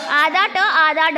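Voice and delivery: आधा ट आधा ड spoken slowly, each part stressed; slow emphasis. Shown as a demonstration. Teacher drilling आधा ट आधा ड slowly for students. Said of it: "teacher stresses the rule".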